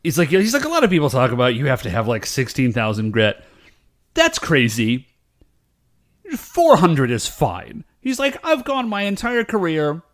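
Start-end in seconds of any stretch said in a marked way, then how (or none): 0.6-7.8 lightly imitated British woodworker; a hint of a British accent, badly approximated; vague British accent. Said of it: "sort of a vague British accent". 8.5-10.0 old British craftsman, loosely imitated; vague British accent. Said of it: "sort of a vague British accent".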